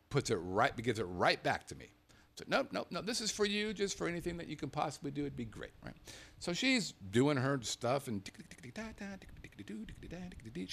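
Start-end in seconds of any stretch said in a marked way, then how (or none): 2.5-5.7 higher, eager insisting; mock-generous pressing, pitched up; insistent tip offer. Insisting the clerk keep the tip. 8.4-10.7 high, soft tick-tick typing noises; light imitated clicking, pitched up and hushed; mock keyboard tapping. Imitating clerk typing away.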